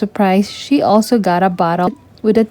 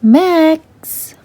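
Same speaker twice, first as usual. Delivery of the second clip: startled; 7 semitones higher than usual. A narrator's reading. Catches dog chewing gifts.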